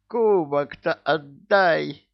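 loud, slow high shout. Acted. Tsar shouting at Ivan to give the goblet back, loud and slow. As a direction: yell after him before the line drops.

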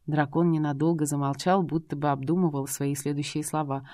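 ordinary delivery

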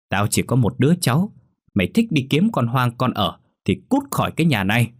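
put-on a stern old woman laying down the law to her son; angry scolding mother. Bà cụ mắng con trai. (mẹ già mắng con trai, giận dữ)

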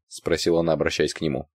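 plain reading voice

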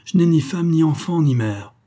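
high start, falling to the end; exclaimed. A narrator's reading. Grenadier offers the major his place, exclaimed. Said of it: "s'écria le grenadier".

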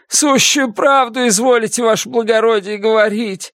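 high, fawning convict voice; fawning prisoner. A narrator's reading. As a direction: flatter the officer, eager to please.

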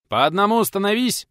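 line them up with a shout; booming call to the crowd; shouted order. A narrator's reading. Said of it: "выкрикнул хозяин дома".

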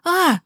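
высокий короткий вскрик; вскрикни от испуга; испуганный вскрик. A narrator's reading. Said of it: "Я вскрикнула". (мать вскрикивает при ударе, высоко)

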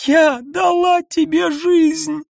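high, loud, slow cry with stress on дала; outcry. A narrator's reading. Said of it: "выкрикнула Ниса". (выкрик с ударением на «дала»)

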